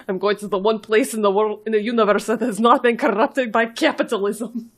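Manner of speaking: hammed-up Russian accent; quoting a film line in a shaky fake Russian accent; horrible Russian accent. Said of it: "That was a horrible Russian accent".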